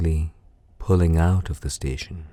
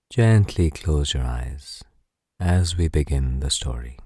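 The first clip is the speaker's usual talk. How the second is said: guided relaxation. Acted. Narrator settles a listener down for a bedtime story, guided relaxation. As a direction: ease the listener into rest, unhurriedly. Leads breathing before the story.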